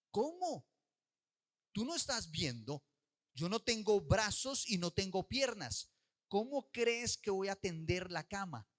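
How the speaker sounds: high, loud, slow outraged protest; indignant protest. Retold or imitated. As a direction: throw her disbelief back at mom. Niña sin brazos protesta. (niña protesta a su mamá, indignada y alta)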